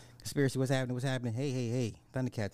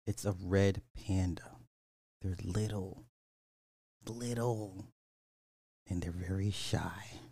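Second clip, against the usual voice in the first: soft, hushed ASMR voice; 4 dB quieter than usual. Pretend. Streamer doing a little ASMR on red pandas, hushed. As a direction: sink towards a whisper by the end.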